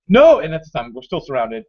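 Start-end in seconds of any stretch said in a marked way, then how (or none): 0.1-0.4 high, loud mock wail; hammed-up refusal to accept it; retold cry of despair. Retold despair at bad news.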